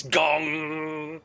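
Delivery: drawn-out ringing gong noise; imitated gong. Game master mimics a slap ringing the ears, drawn-out gong. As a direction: let the gong ring out.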